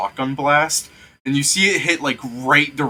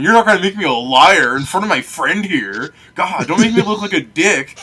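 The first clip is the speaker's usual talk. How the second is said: smooth talker; 5 semitones higher, 4 dB louder than usual. Acted. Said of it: "that's the nat twenty talking".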